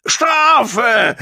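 high, loud drawn-out howl. A narrator's reading. Gong demands punishment in the fight, howling. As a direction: howl it out shrilly, at full voice. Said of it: "heulte Gong".

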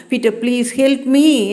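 a touch of tearful begging, understated; crying plea. A narrator's reading. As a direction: plead with a catch of tears in the voice. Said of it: "என்று அழுதேன்". (லேசான அழுகையுடன் கெஞ்சல்)

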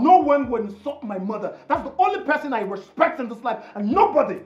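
angry defiance. Acted. Son defends his mother's honour, angry. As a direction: lay down the law heatedly.

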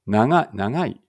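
茨城弁で「長い」; Ibaraki accent. Shown as a demonstration. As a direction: say 長い the way they do in Ibaraki. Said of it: "えーっと、茨城弁です".

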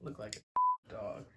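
very high slow squeaky voice. Pretend. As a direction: tease in a squeaky pitch. Teasing partner.

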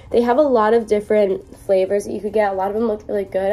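breathing heavily while sick; audible heavy breathing, stuffy. Real, not acted. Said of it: "Sorry about my heavy breathing and my".

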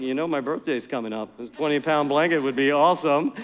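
low, quick sly hint; hinting to wife. Retold or imitated. Husband hinting to his wife about a present, low and sly. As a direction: drop a sly hint about your birthday. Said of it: "and I was like".

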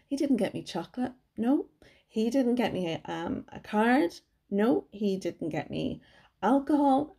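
rising, playful indignation; mock indignant. Real, not acted. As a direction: tease through each no. Listing what hubby didn't give.

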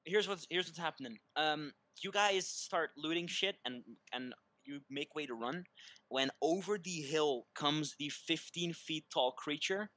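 slow, ominous scene setting; game master narration. Acted. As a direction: build the looming threat slowly.

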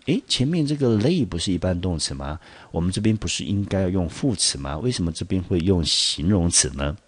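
lightly acted doubtful student; mock puzzlement. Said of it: "很多同学呢可能会感到怀疑". (略带疑惑地模仿学生提问)

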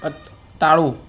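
high, clear word-by-word prompting; teaching a toddler. Acted. Uncle teaching a little child words, high and clear. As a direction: spell out each word for the child to echo.

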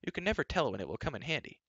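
high, quick princess explanation. A narrator's reading. Princess explains her bauble.

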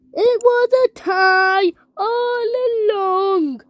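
crying. Real, not acted. Upset about losing to a tie.

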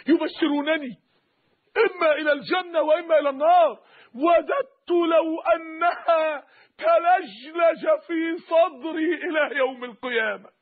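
high, drawn-out retold lament; tearful dying plea. Dying believer answers those asking why he weeps, tearful. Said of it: "وقعد يبكي عند الموت".

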